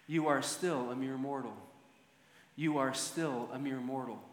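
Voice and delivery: low, softened voice, only lightly imitating a whisper; a hushed reminder meant for one man's ear; retold whisper. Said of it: "whispered in his ear".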